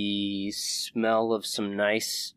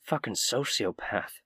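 Quinn; 6 dB quieter than usual. Acted. Companion to adventurer about the shopkeeper, whispered. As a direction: mutter it secretly under the breath. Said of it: "Quinn whispers to you".

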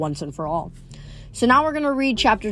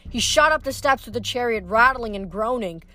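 lively audiobook narration; story narration. A narrator's reading. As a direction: read the chase like an audiobook. Reads novel chapter aloud.

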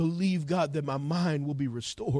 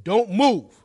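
urgent command; 5 semitones higher, 8 dB louder than usual. Retold or imitated. Urgent order to injured son retold.

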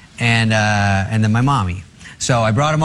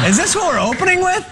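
high, fast, laughing disbelief; mock-horrified whisper through laughter; laughing aside; faster than usual. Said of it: "And I go".

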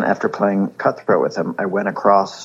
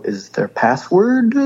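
put-on higher, slow broken-English French accent; 10 semitones higher, slower than usual. Asking the French boy about the password, mock accent. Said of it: "Just throwing a little French accent on it".

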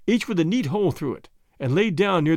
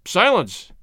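calling out; 4 dB louder than usual. Acted. Umpire Retief silences the arguing Boers with a loud call. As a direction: call the crowd to order. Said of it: "calling out".

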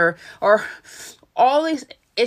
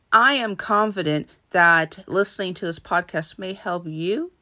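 "you" lifted at the end like a question; upspeaking. Shown as a demonstration. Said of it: "Now, notice how I say you".

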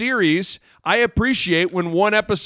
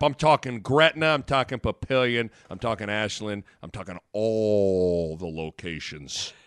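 ever-deeper, softer announcer list; mock-deep ad read; 10 semitones lower, 5 dB quieter than usual. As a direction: step the pitch down town by town, stretching the last. Ad list sinking lower and lower.

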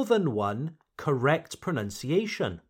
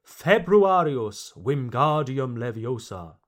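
spell-casting; 3 semitones lower than usual. Pretend. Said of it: "reminds me of a spell from Harry Potter".

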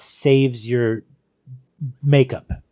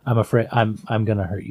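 understated fear; 3 semitones lower than usual. Retold or imitated. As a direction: confess it without intensity, trailing down. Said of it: "it sounds fearful".

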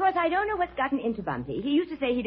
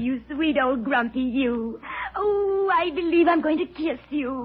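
gushing. Acted. Gushing over the old doctor.

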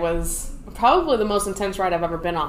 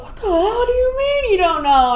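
high, loud, exasperated demand; mock angry question; 12 semitones higher, 4 dB louder than usual. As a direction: bark it at a confused recruit. Staff yelling at confused recruit.

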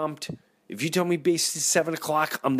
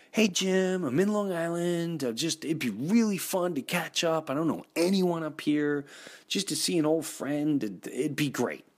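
voiced phone message; 4 semitones higher than usual.

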